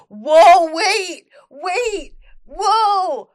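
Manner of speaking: high, loud whoa of surprise; startled shout. Real, not acted. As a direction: stop short, genuinely thrown. Startled by a detail in the post.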